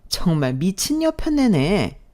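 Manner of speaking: slow scornful insult; slow disdainful muttered insult; contemptuous. Acted. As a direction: spit it out with contempt. Mother-in-law insults stepmother.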